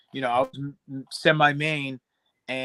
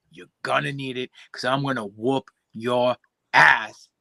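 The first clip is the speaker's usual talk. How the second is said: wrestling promo. Acted. Wrestling promo threat to rival.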